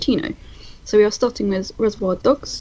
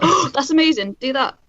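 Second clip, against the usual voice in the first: impressed; 5 semitones higher than usual. Retold or imitated.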